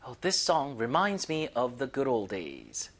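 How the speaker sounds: slow, careful repeat for learners; slow model sentence. Shown as a demonstration. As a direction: drag it out for the class. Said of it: "이거 그대로". (천천히 또박또박 반복)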